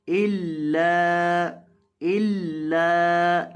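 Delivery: इल्ला with the doubled l held one beat; stretched lam. Shown as a demonstration. Teacher demonstrates इल्ला for students, slow drawn recitation. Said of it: "लाम को एक अलिफ के बराबर लंबा करेंगे".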